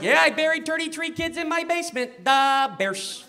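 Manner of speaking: put-on light Chicago superfan accent; a hint of a Chicago superfan. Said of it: "thick Chicago accent".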